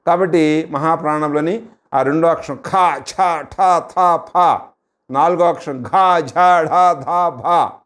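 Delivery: each aspirated letter pushed out from the belly; aspirated letters demo. Shown as a demonstration. Teacher demonstrating the aspirated letters to students, forceful breathy delivery. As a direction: breathe hard through each letter, from the navel. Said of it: "ఆ అక్షరాలను పలకడానికి నాభిలో నుంచి స్వరం రావాలి".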